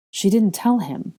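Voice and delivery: stunned, measured realisation; disbelief. Acted. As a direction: stress the telling in disbelief. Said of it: "said in disbelief".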